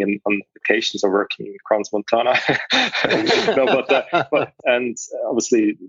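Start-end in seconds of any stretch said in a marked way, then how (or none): 2.4-3.5 bright high burst of laughter. Real, not acted. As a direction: laugh at your own quip. Laughs at own joke.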